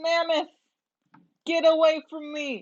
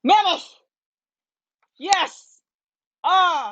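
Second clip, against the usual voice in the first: loud, high whoops of joy; excited cheer; 4 semitones higher, 7 dB louder, much slower than usual. Real, not acted. Gets mammoth, cheering.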